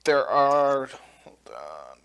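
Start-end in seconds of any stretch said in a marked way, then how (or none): 1.2-2.0 whispered aside. Real, not acted.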